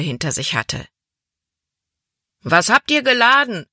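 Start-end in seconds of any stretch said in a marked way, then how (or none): 2.4-3.7 higher, louder call from the crowd; a man in the crowd calls up to the boat, raised voice. A narrator's reading. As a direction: shout the question up to the deck. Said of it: "rief ein Mann".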